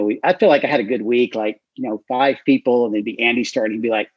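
normal talking voice

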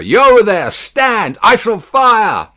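high, loud shouted warning; guard's roar, slowing on the threat; roaring challenge. A narrator's reading. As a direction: bellow a threat to halt. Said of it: "as loud as he could roar".

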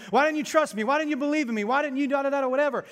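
grumpy preacher voice. Pretend. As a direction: nag them like an angry old preacher. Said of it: "beating the disciples over the head, going".

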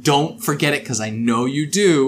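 lightly voiced nagging master; a hint of a master's emphatic instructions; Kefien. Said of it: "you can hear his voice in the words".

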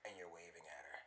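low, soft, sleazy nasty voice. Pretend. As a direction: drop low and soft, leering. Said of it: "Your nasty voice".

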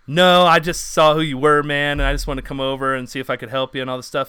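a retold eager fan blurting the truth; excited confession. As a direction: gush it out all at once. Retelling his excited reply.

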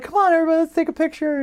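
high-pitched rallying call; imitating wife calling out. Calling the group for photo.

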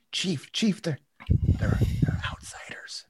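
high call then whispered; urgent whisper. Acted. Sela whispering to the chief that they're outsiders. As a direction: lean in and whisper the secret.

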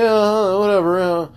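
dismissive brush-off. Retold or imitated. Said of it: "He's like".

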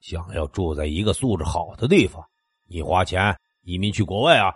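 lightly voiced menacing man; a hint of a thuggish neighbour sneering; vicious threat. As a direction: threaten him, mocking and cold. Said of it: "男人恶狠狠地说".

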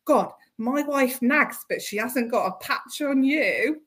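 put-on slow, half-hearted Irish accent; attempted Irish accent. Quoting a drunk Irish guest she is evicting, attempted Irish accent. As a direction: have a rough go at an Irishman's accent. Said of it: "I can't do an Irish accent".

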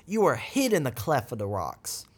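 a light touch of a Jamaican lilt; hint of Jamaican island accent. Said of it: "I sounded totally Jamaican in there".

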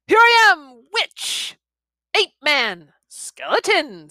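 put-on high, loud, gleeful boy's taunts; gleeful shouting. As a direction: shout the names out in giddy delight. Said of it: "said Tom, hilarious inside his bones".

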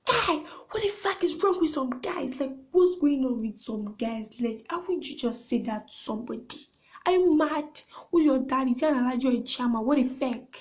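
a gasp, then a rising indignant rant; outraged rant. Retold or imitated. Venting to viewers about a rude date, outraged.

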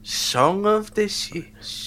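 put-on Indian accent. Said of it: "the Osho accent for him".

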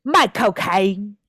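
slow "my cocaine", echoing the name Michael Caine; trying the trick. Shown as a demonstration. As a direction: test "my cocaine" slowly. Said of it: "I'm gonna try this trick".

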